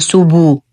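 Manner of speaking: سوبو with a u vowel wrongly added after the ب. Shown as a demonstration. Teacher showing a common mistake, سوبو ending in a full u. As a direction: turn the bounced ب into a full "bu" in سوبو. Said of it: "ومن الأخطاء الشائعة أن يقال".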